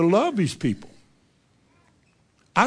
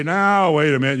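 mildly sharp objection; 3 dB louder than usual. Retold or imitated. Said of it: "then you're rude and harsh".

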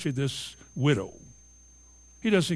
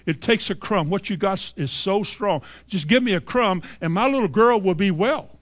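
pleading, rising and louder toward the end; begging mother; 3 semitones higher, 4 dB louder than usual. Acted. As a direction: beg for just a crumb. Mother begs Jesus for crumb.

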